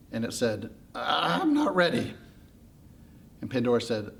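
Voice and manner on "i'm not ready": slow, drawn-out little protest; timid reluctance. Acted. Little scared problem answering Pandora, timidly. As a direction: stretch it out, hesitant to leave.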